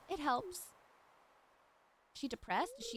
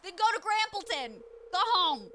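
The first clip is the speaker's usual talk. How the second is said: louder, higher go home; mock shooing; 6 semitones higher, 5 dB louder than usual. Telling rival Scarlet to leave, mock shooing. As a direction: shoo her off playfully.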